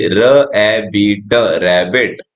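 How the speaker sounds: र ए बी ट sounded slowly, one sound at a time. Shown as a demonstration. Teacher blending rabbit slowly for young learners. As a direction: break rabbit into slow sounds. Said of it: "र का sound आता है आर से".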